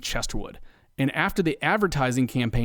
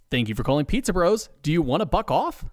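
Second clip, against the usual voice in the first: pleasant; 3 semitones higher, faster than usual. Acted. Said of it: "Steve pleasantly asks".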